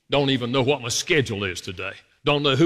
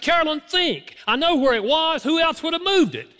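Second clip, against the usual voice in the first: shrill him squeezing out blame at his wife; high-pitched retold yell; 13 semitones higher than usual. Husband yelling at wife over a lost briefcase, high and exasperated. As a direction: pitch climbing way up, accusing and exasperated. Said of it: "Every round I got higher, higher, higher".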